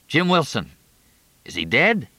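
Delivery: high urgent questioning; anxious cry for news; alarmed. A narrator's reading. Panic at the burning lab.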